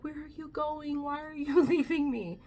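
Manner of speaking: put-on high, pleading like a clingy child; whiny baby. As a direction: mimic dad whimpering to be left alone. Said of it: "so he would be a baby".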